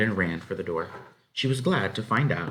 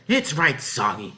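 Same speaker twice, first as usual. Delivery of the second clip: slow, higher homely drawl; farm wife's verdict; 6 semitones higher, 4 dB louder than usual. A narrator's reading. Farm wife judging the soaked bread, slow and higher. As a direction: weigh it up slowly like a country wife. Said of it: "she said".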